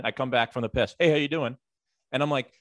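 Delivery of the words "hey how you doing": higher-pitched canned greeting; NPC greeting. Retold or imitated. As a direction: mimic a coworker's identical hello on every pass. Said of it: "she is truly, like, Skyrim".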